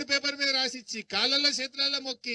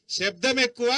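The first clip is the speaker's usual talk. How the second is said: loud slogan; 4 dB louder than usual. Shown as a demonstration. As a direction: hammer శబ్దం ఎక్కువ home loudly to the crowd. Rally speech, repeated slogan louder.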